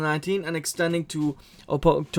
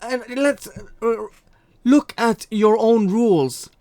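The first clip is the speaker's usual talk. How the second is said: indignant challenge; 7 semitones higher, 6 dB louder than usual. Real, not acted. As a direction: throw their rules back at them. Mocking challenge to Blizzard.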